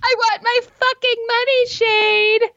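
high, fast put-on yelling voice; movie quote voice. Quoting the film's line to her co-host in a shrill put-on voice. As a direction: squeal it like the film character.

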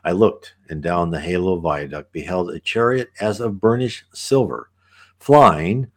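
put-on measured reading of an old visionary text; unhurried scripture-like reading; reading aloud. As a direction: read it as a solemn, flowing passage. Reads passage aloud between comments.

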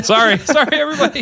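high laughing sorry; giggling apology after getting pumped. Real, not acted. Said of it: "I got really pumped".

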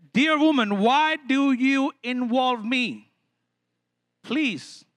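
slow, measured appeal; mock-polite, drawn-out protest; diplomatic. Jesus diplomatically asking his mother to leave him out, measured. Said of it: "a little more diplomatic version".

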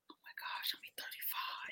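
hushed mock disbelief, all breath; dismayed whisper. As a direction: whisper it as if the news is too much. Dismayed whisper about own birthday.

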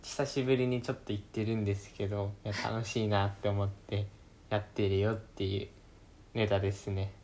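talking with candy in mouth; sucking candy. Real, not acted. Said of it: "飴舐めてる？".

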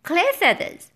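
high-pitched puzzled little bird; small bird's baffled question; chirping confused bird. A narrator's reading. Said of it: "he chirped up at us".

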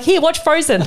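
put-on high, bright sing-song aside to a child; mock chirpy mum. To the five-year-old in the bathroom, a high chirpy mock mum voice. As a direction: hand her the iPad with a high, playful chirp.

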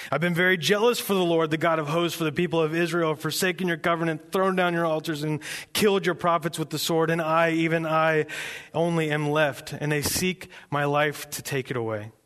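lightly proud, insistent recital; proud recitation. Acted. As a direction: rattle off a well-worn grievance proudly. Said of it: "Elijah's very proud of this speech".

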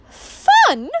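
high, loud, scandalised cry; shocked. Acted. Mother aghast at Valancy's plan, shrieking in shock. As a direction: recoil at the word in horror. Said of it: "uttered the word as if".

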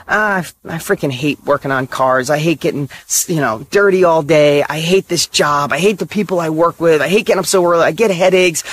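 low, weary mock complaint; acted grumbling. Mechanic moaning about his job, grumbling. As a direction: gripe through a list of hated things.

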